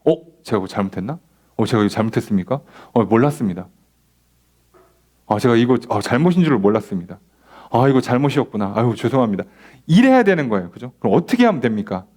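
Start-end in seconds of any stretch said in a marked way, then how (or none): 0.0-9.4 humble apology. Shown as a demonstration. Student accepting a coach's correction, humbly. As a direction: take the correction meekly. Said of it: "우린 처음에 뭐라고 들어야 돼요?".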